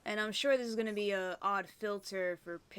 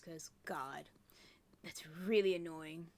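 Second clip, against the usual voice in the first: whisper; 3 semitones lower than usual. Real, not acted. Annoyed aside while playing.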